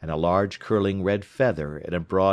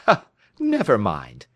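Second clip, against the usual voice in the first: laughing; 5 dB louder than usual. A narrator's reading.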